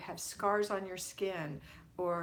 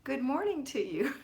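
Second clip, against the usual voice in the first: higher, louder playful British greeting; half-joking British accent, pitched up; mock British accent; 4 semitones higher, 5 dB louder than usual. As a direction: have a go at a cheery British accent. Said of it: "I can't do a British accent".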